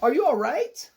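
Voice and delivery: high, concerned question; shy question. A narrator's reading. Dancer to the fallen pizza man, shyly. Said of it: "she asked shyly".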